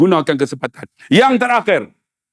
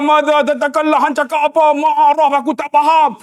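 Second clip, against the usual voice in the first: confused policeman; 6 semitones higher than usual. Retold or imitated. Voicing the Arab policeman.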